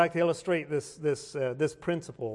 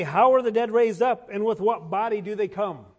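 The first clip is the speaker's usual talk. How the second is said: mocking question; 2 semitones higher, 6 dB louder than usual. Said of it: "these are mocking questions".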